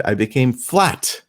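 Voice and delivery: slow, careful broken Spanish; a slow, self-assured attempt at Spanish; earnest mock Spanish. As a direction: say it proudly, not knowing the joke. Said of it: "And I said".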